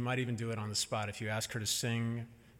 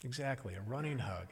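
softer, falling, reassuring answer; gentle confirming; 6 dB quieter than usual. Retold or imitated. Mother answers toddler about the hug game, gentle confirming. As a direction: imitate a parent gently confirming to a child.

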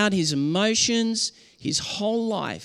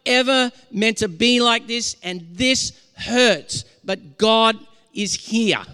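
louder, higher preached declaration, slowing at the end; prophetic declaration; 4 semitones higher, 4 dB louder, slower than usual. Shown as a demonstration. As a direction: proclaim it like a prophet, easing down on the last words. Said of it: "a prophetic message that says".

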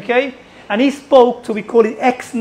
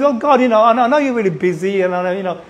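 hesitant, trailing-off appeal to God; beguiling prayer; much faster than usual. Acted. A believer tries to beguile a busy God, hesitant. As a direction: tiptoe round it apologetically. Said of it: "than you try and beguile him with".

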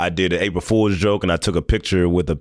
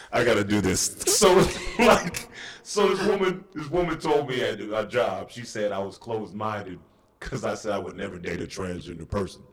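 put-on comic voice; 5 dB quieter than usual. Comedian retelling a workplace accusation, in silly softened put-on voice. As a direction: keep the silly voice through the story. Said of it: "if I say it in this voice".

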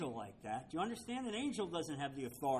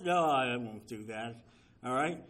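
God's answer; 6 semitones lower, 3 dB louder than usual. Retold or imitated. God answers Abraham's bargaining.

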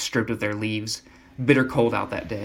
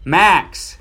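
much higher, louder shout of the name; yell; 7 semitones higher, 9 dB louder than usual. Acted. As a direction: bark the dog's name over the noise. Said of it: "Hank yells".

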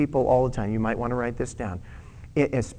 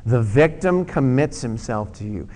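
repeated aloud; 3 semitones lower than usual. Shown as a demonstration. Pastor repeats the verse with congregation, firm. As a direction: read it out again, firm falling end. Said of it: "Let's say it again".

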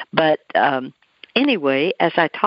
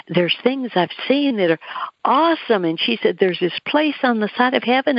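mildly excited retelling, lifting higher on "awesome"; retold excitement; 5 semitones higher than usual. Dying woman describing heaven to her visitor, mild excitement. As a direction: imitate her eager account with a rising pitch. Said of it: "she was excited".

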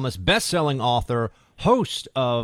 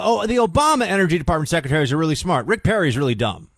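sarcastic; 5 semitones higher, 6 dB louder, faster than usual. Retold or imitated. Host voicing paper's implied message.

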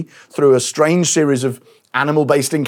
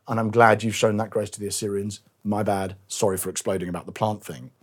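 lower, softer, contrite Jonah admitting he was wrong; humbly concede, a lightly voiced sorry Jonah; repentant Jonah; 5 semitones lower, 3 dB quieter than usual. A penitent Jonah apologising to God, lower and softer.

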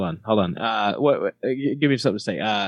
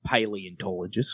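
softer Australian "Paleontologist"; Australian accent; 3 semitones lower, 6 dB quieter than usual. Shown as a demonstration. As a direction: relish the word quietly in Australian. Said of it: "That's a fun word to say in Australia".

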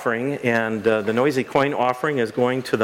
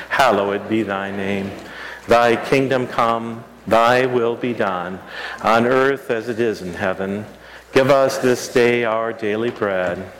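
Lord's Prayer. Acted. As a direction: pray it together, unhurried.

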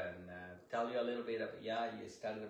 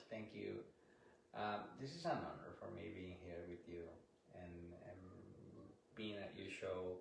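softer, a little shy, barely above the mic; talking low; 4 semitones lower, 9 dB quieter than usual. Real, not acted. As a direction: keep it low and modest, close to the mic. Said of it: "You talk so low".

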